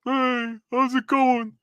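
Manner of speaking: high little cartoon gerbil voice; put-on high gerbil voice; gerbil mutant. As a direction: greet as a small cartoon rodent villain. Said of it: "a gerbil".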